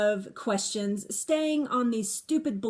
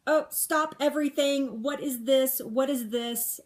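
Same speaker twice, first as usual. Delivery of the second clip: alarmed discovery; 4 semitones higher than usual. Retold or imitated. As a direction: relive the moment she felt the lump, alarmed. Retells finding the lump.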